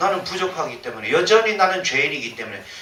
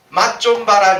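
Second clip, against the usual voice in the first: a loud, menacing threat, raised and higher; 5 semitones higher, 7 dB louder than usual. Acted. Angry ruler threatening his deserters, loud and menacing. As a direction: snarl it like a vengeful ruler.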